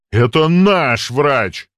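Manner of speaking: slow, loud command; commanding boom. Acted. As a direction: boom with authority. Boss continues commanding.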